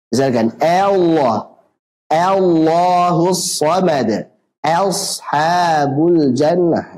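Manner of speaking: "Allah" said too thin, like "Elah"; "Ashabul" said leaning to E, "Eshabul"; wrong thin hamzah. Shown as a demonstration. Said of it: "Ini salah". (hamzah terlalu tipis seperti imalah)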